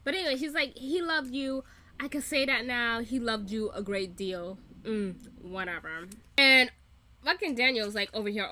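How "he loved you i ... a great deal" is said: lightly put-on British accent; mock-British quote, starting firm and settling down; Armand. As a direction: mimic him with a hint of British. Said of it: "this is a British accent every time".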